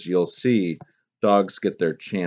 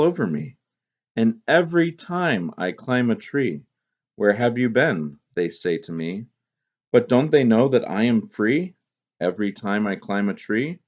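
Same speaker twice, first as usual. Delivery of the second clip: put-on lively poem reading to children. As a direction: read it with childlike joy. Teacher reads poem aloud.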